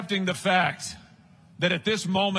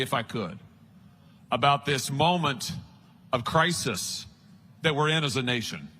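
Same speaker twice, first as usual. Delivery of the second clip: sincere, personal; 4 semitones lower than usual. Real, not acted. Turns personal, softer.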